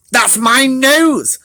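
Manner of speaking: high, slow squeak. Acted. Shrew bumped on the nose, high slow squeak. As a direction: squeak in protest. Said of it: "Shrew s-, squeaked".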